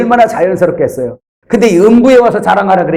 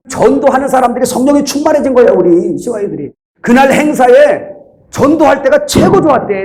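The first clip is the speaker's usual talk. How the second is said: raised, high-pitched sermon delivery; fervent preaching; 7 semitones higher than usual. Real, not acted. Preacher praising youths who went evangelizing, fervent preaching. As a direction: press it home to the congregation.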